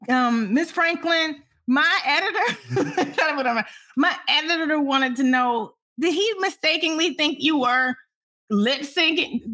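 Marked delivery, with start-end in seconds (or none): 0.5-2.8 higher, hesitant, polite voice; timid approach. Retold or imitated. Reporter approaches a displeased famous singer, timid and careful. Retold timid question to an angry star. 6.0-9.4 slightly raised, careful, drawn-out wording; timid question. Retold or imitated. Reporter asks a famous singer an awkward question, timid and careful.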